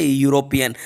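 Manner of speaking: "यूरोपियन" starting with a clear yu glide; yu sound. Shown as a demonstration. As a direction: say "यूरोपियन" as you-ro-pi-yan. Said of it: "इसको यूरोपियन पढ़ा जाता है". ("यूरोपियन" की शुरुआत साफ़ 'यू' से)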